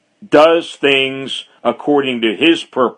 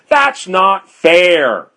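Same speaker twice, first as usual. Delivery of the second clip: higher, drawn-out cry of unfairness; indignant objection; 4 semitones higher, much slower than usual. Acted. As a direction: protest it slowly, as the accuser. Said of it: "the first criticism was going to be".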